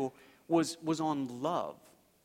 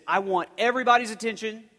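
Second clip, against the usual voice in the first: teacher's announcement; 3 semitones higher, 8 dB louder than usual. Retold or imitated. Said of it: "she said".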